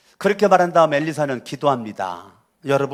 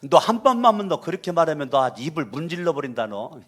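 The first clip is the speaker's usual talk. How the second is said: blunter mock Chungcheong threat, lightly voiced; 충청도 사투리로 더 무식하게 겁주듯; cruder Chungcheong dialect. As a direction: say it even more roughly in Chungcheong dialect, playfully. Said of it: "더 이제 무식하게 말하면".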